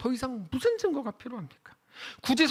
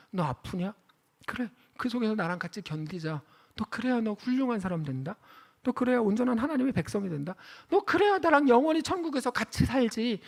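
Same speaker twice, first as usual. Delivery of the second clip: tender God's voice. Acted. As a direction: comfort the suffering one gently. Voicing God's tender words. (하나님이 아픈 성도를 달래듯 부드럽게)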